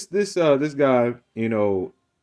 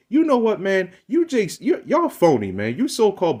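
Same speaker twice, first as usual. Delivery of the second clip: high and raised, accusing; angry outburst; 8 semitones higher than usual. Real, not acted. Calling out so-called black people, angry raised voice. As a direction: fire it straight back at him. Shouting down the questioner.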